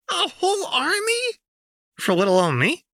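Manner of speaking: very high, squealing delight; shrill-high teasing glee; mock flattered. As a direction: gush over the threat.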